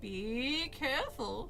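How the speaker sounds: slow, measured warning. Acted. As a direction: caution her slowly and gravely. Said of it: "she warned".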